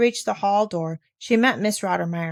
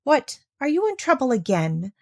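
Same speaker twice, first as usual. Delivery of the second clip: pleasant voice; 5 semitones higher than usual. Acted. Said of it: "in a pleasant voice".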